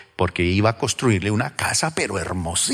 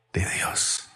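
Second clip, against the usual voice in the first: hushed; 8 dB quieter than usual. Acted. Sermon, the angel's words.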